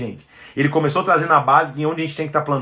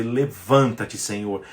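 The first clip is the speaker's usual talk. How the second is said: slow declaration; 5 semitones lower, slower than usual. Shown as a demonstration. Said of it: "de abrir os nossos lábios e dizer".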